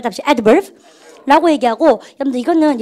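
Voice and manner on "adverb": adverb with the stress on AD. Shown as a demonstration. Teacher marks the accent for the class, adverb firmly stressed. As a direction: model adverb clearly, first syllable punched. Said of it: "여기 강세".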